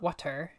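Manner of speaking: "water" with a crisp, released T; T pronunciation. Shown as a demonstration. Linguistics student showing the rejected sound, "water" with a hard T. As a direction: say "water" with a true T, not a D. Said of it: "it's not a T".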